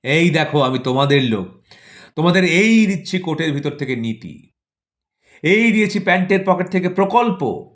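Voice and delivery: mock-grand minister playing to the crowd; government as stage magician. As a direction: hand out promises like a carnival magician. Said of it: "দেশবাসীদের বলেন".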